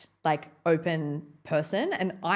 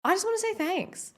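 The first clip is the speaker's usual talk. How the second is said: choked up thanks. Real, not acted. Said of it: "I'm fully gonna cry".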